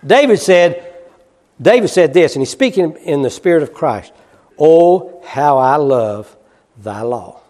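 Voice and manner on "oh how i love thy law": reverent. Acted. Preacher voices David's psalm quote.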